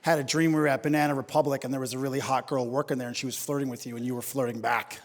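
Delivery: put-on low, sullen accusing girlfriend; sulky girlfriend. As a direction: mutter the grudge over breakfast. Wife voiced, low and sulky.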